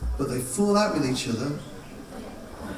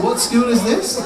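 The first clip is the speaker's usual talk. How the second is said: excited shout; 6 semitones higher, 4 dB louder than usual. Real, not acted. Excited call to the audience.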